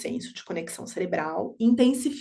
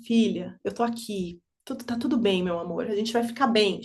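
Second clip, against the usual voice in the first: tender reassurance. Retold or imitated. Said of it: "falando assim, olhando pra ela".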